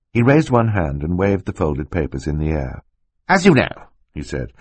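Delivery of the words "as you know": put-on excitable older uncle, higher; lightly voiced eager uncle; Uncle Monty voice. A narrator's reading.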